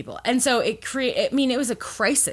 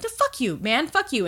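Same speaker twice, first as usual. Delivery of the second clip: mock angry outburst; 4 semitones higher than usual. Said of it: "just had a "fuck you" moment".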